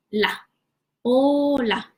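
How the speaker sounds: la, then hola said slowly with a falling tune; syllable drill. Shown as a demonstration. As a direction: build "hola" from "La". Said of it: "what you're pronouncing".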